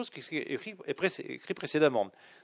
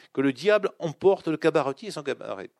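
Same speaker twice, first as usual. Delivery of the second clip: louder, built-up mock curse; louder exclamation; 5 dB louder than usual. Lecturer acting out Jacques' sudden curse, louder. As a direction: let the curse burst out louder. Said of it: "une rupture dans le ton".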